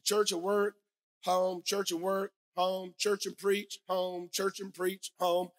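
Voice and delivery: slow, level singsong list; monotonous routine. Retold or imitated. Pastor recounting his daily grind to the congregation, monotonous. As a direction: plod evenly through each repeated item.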